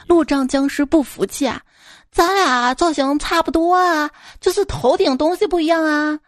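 high, loud, indignant zombie; squeaky, huffy cone-head zombie; cartoon zombie voice.

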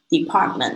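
"Department" with the T after N barely touched; "Department" with no heavy T; soft T demo. Shown as a demonstration. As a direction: say "Department" with only a light tongue tap for the T. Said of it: "那个T不要念得那么重".

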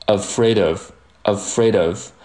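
"afraid of" joined, d flowing into "of"; linked pronunciation. Shown as a demonstration. Teacher linking afraid and of for learners, linked pronunciation. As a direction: say "afraid of" slowly as one linked word. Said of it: "afraid和of连读成afraid of".

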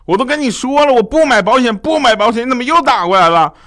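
high, loud imitation of an exasperated dad; roaring. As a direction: bellow it like a fed-up father on the phone. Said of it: "然后我爸就咆哮啊". (模仿爸爸高声咆哮)

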